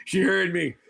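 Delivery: words slipping out through a real laugh. Real, not acted. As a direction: say it while failing to hold back a laugh. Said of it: "I'm trying not to laugh".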